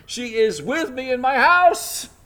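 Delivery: a furious king catching someone in the act; exclaiming. Retold or imitated. The king bursts back into the room, loud and outraged. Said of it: "he exclaims in verse eight".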